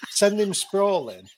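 high, slow, through laughter; savouring the punchline with a laugh. Real, not acted. Laughing about dad's headbutt.

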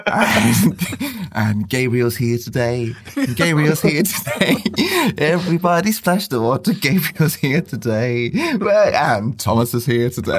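put-on sung in an English accent, swim teacher style. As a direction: lead the class song in an English accent. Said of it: "I do an English accent as well".

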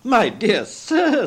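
high, drawn-out amazement; overwhelmed gratitude. A narrator's reading. Gentleman shaking Scrooge's hand after the donation, overwhelmed. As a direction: stretch each word high in wonder.

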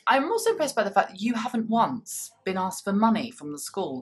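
ordinary talk, nothing marked

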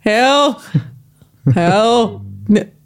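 unsure try at a Northern Irish vowel; attempted Northern Irish accent. Shown as a demonstration. Guest testing if the accent offends, tentative Northern Irish accent. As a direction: test out a Northern Irish "how". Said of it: "supposed to say, like, "how" in a certain way".

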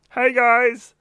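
high, loud put-on hello; awkward mock greeting. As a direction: greet the scary bikers far too brightly. Awkwardly greeting intimidating bikies.

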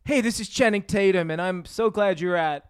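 stilted cinema promo read; Channing Tatum. Acted. Actor greeting cinema audiences, read-out promo parody. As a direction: read it off a script, lightly mocking. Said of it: "like, reading".

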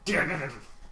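badly faked machine-gun rattle; short burst of mouth noise; imitated machine gun. Ending the gangster email, mock machine-gun noise. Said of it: "supposed to be a machine gun".

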